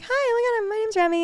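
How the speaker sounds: high, gushy retold hello; perky greeting. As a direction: introduce yourself with a chirpy squeal. Acting out her perky greeting back.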